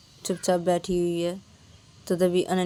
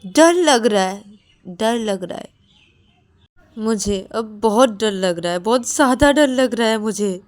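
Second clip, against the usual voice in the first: louder, slightly higher; frightened confession; 4 semitones higher, 9 dB louder than usual. Acted. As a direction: say it with dread. Payal admits fear.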